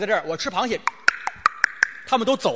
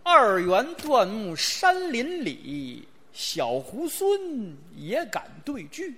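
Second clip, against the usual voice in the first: slow, measured couplet reading; unhurried verse recital; slow recitation; much slower than usual. Acted. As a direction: recite it deliberately, line by line.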